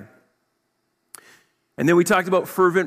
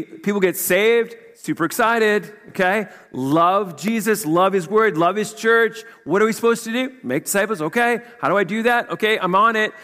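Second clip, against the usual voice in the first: higher, bright with excitement; eager new convert; 6 semitones higher than usual. Retold or imitated. Pastor acts out a new believer's zeal, excited and higher. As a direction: voice the zeal of the newly saved.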